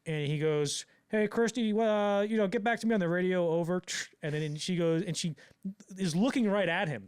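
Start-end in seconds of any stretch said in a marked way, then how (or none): 1.1-3.8 imitating a raised-voice radio call; radio someone as if far away; walkie-talkie call. Acts Cameron calling on walkie-talkie.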